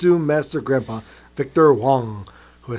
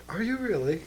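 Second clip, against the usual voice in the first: light British-style are you really; clipped-vowel British imitation, softly; British accent; 6 semitones higher, 8 dB quieter than usual. Friend mocking a British way of saying it, soft. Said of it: "when did you become English".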